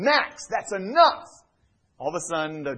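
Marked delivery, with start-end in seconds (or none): 0.0-1.3 raised, higher, louder command; yelling at the dog to stop. Shown as a demonstration. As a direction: call the dog off firmly, slowly. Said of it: "The moment I yell at him".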